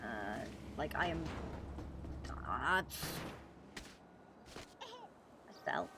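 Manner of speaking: winded from running; panting between words; out of breath. Real, not acted. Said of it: "I'm, like, running on rooftops at the moment".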